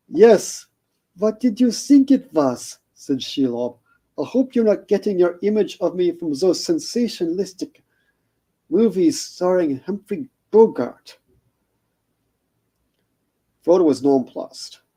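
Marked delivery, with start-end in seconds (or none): 0.1-11.2 lightly put-on accent, a touch higher; Shelob's vague accent. Shelob greets Frodo in a lightly accented voice. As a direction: purr the greeting in a hint of a foreign accent. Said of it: "no idea what the accent was".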